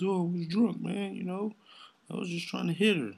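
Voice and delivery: high-pitched, pleading mock excuse. Mimicking men blaming drink for their behavior, mock pleading. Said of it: "niggas use that excuse".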